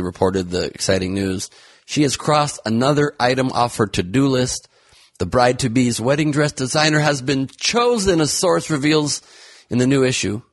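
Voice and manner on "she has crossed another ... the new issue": high, gushing gossip voice; mock excited gossip. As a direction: gush like a tabloid host.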